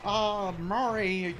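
lightly voiced Bentley. Friend voices Bentley from the game.

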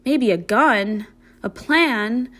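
slow, rising "Maybe a gun" in disbelief; incredulous echo. Acted. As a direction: repeat it as if it can't be real. Pony echoes in disbelief.

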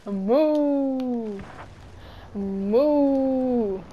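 drawn-out playful cow moo. Pretend. Streamer plays a cow for teammates, drawn-out moo. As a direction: moo like a goofy cow on voice chat. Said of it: "I'm a cow".

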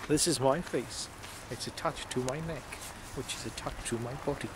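mock formal introduction. Addressing the camera's face detection.

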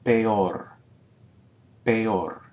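Peor as pe-or; syllables separated. Shown as a demonstration. Teacher models Peor for students, two syllables. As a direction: split Peor into two beats. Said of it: "two strong vowels".

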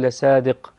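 لصادق with heavy emphatic ص; لصادق, full emphatic ص, not a plain س; emphatic sad. Shown as a demonstration. Teacher showing the emphatic ص in لصادق. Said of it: "بالصاد وليس بالسين".

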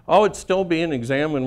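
lightly whiny, evasive; a touch of whining excuse. Retold or imitated. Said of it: "an impression of him".

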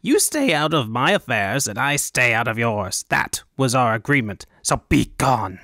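lightly voiced indignant official; blustering governor. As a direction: dismiss them with pompous bluster.

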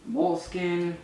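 voice cracking. Real, not acted. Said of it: "Wow, my voice cracked".

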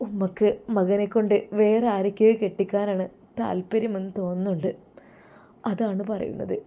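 wife quietly telling her husband what his mother said; hurt wife. Acted. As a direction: pour out the hurt, sinking into a whisper. Wife hurt, complaining softly.

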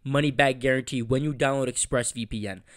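polished, evenly paced ad read; sponsor read. Acted. Host thanking the sponsor for listeners, ad-read delivery. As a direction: read it out like a podcast sponsor spot.

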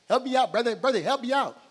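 hammed-up desperate begging; pleading victim. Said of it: "he was like".

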